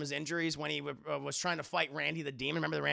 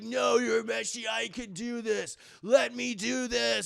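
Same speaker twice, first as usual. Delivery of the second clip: slow, raised, straining hero voice; determined hero; 4 semitones higher, 4 dB louder than usual. Retold or imitated. Hero refusing his friend's help, drawn-out insistence. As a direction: stretch each plea out with mock-heroic resolve.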